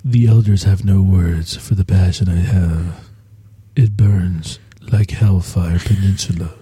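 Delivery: mock-courtly fantasy romance; renaissance fair olde speech. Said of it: "talk in old English".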